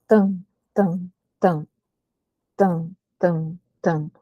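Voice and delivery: evenly spaced low beats, tam tam tam; imitated drumbeat. Shown as a demonstration. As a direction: sound out a steady drum rhythm. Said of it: "Quando você bate no tambor, que você faz".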